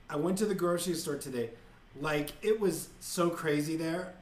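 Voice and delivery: mock Kardashian talk. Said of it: "they speak Kardashian".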